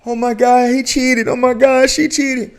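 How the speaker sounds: high mock outrage over cheating; mock gossiping internet. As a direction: play the scandalised internet crowd. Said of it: "The internet don't care".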